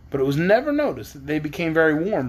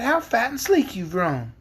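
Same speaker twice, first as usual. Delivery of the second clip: glad; 6 semitones higher, slower than usual. Acted. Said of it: "a glad cry".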